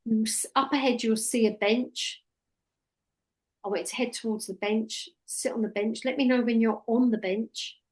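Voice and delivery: demonstrating a hypnosis script to a trainee; hypnotist script voice. Shown as a demonstration. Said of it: "all you're doing is taking me into hypnosis".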